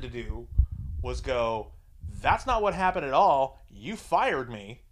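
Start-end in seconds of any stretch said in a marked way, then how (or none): 2.2-4.8 mock confrontation. Fired employee calls out the boss at stand-up, mock indignant.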